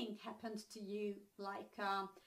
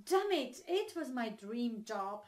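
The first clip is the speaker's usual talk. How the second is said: mild exclamation of regret, louder; acted-out disappointment over a missed chance; regretful; 5 dB louder than usual. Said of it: "when you feel regret about something".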